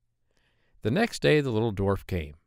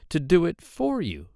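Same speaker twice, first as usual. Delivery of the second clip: higher, squeaky voice of a hobbling little man; droll little man; 7 semitones higher, 3 dB louder than usual. Acted. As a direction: pitch him up high and sly. Dwarf bargains with maiden.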